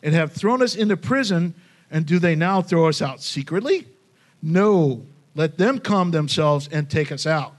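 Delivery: firm challenge, No punched out; bold defiant tone. Retold or imitated. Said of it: "in that tone of voice".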